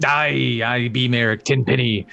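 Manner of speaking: lightly voiced pirate; a hint of gruff pirate swagger; Merrick pirate voice. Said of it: "you just have such a good pirate voice".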